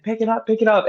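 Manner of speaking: referee yelling. Retold or imitated. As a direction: imitate the ref pushing him to finish. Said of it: "yelling at me".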